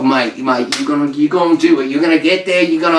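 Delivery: put-on quick British-accented pep talk; eager British cornerman patter; British supporters. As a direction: hype up your fighter in mock British. Acts British supporters hyping their cat.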